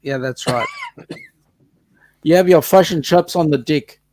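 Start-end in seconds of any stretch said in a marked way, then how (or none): 2.2-4.0 fish and chops with Kiwi vowels; "fish" said as "fush", "dick" for "deck"; Kiwi accent. Retold or imitated. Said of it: "There's no way they say chops".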